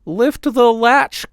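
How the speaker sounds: put-on high, slow old grandmother call; frail grandmother calling from bed. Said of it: "called out the grandmother".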